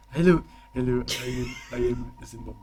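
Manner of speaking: a hint of African accent; attempted African accent. Shown as a demonstration. Game master testing a character voice, attempted African accent. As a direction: try on a rough African accent. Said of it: "go with African type accent".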